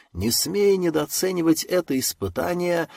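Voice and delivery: ordinary delivery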